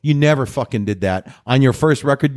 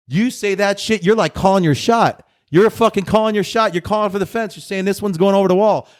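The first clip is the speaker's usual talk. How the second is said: fired-up higher rant; wrestling promo; 3 semitones higher than usual. Real, not acted. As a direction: hype it like a pro wrestler calling his shot. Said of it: "I feel like I'm cutting a wrestling promo right now".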